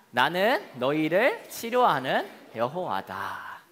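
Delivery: slow, solemn group reading; scripture reading. Acted. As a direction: read the verse aloud slowly and reverently. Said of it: "시작!".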